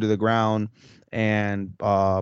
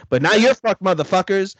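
louder taunting villain line; mock villain gloat; 9 semitones higher, 5 dB louder than usual. Retelling an anime villain, a louder mock taunt.

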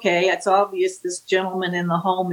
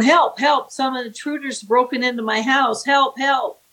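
higher-pitched, lightly acted panic; retold plea for help, pitched up; mock cry for help; 4 semitones higher than usual. Woman fakes an intruder call to the dispatcher, mock cry for help.

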